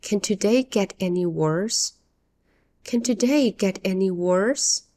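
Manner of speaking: mild sarcasm, rising at the end; sarcastic question. Shown as a demonstration. English teacher models a complaint, as a sarcastic question. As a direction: ask it sarcastically, expecting no answer. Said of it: "This is a very sarcastic question".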